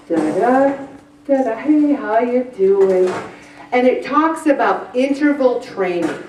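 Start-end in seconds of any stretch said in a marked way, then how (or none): 0.1-3.1 lightly imitated easygoing walker humming along; casual stroller. Mimicking people on a leisurely walk, breezy. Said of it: "they're like this".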